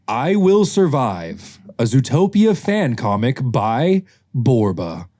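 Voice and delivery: slow, grand story-reader delivery; theatrical title announcement. Acted. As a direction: announce the title slowly, stretching key words. Reads comic title theatrically.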